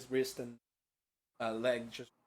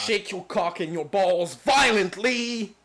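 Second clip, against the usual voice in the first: mock urgent command; 3 semitones higher, 6 dB louder, slower than usual. Joking game instruction shout.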